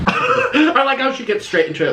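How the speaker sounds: laughing through the words; amused laugh while talking. Real, not acted.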